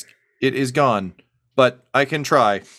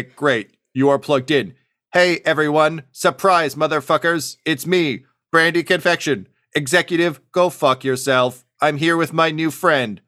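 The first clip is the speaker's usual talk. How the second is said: higher and louder, gleeful hijacked-intercom announcer; excited robot broadcast; 6 semitones higher, 4 dB louder than usual. Acted. Robot Brandy announces to everyone over the speakers, gleeful and loud. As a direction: crow it to the whole building like a surprise party. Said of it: "she says".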